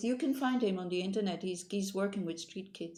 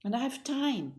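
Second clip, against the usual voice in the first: cheerful reply; 6 semitones higher than usual. Retold or imitated. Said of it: "I usually say".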